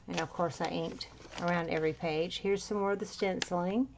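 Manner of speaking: winded, breathing between words. Real, not acted. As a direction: talk while still catching your breath. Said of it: "Sorry, I'm still winded".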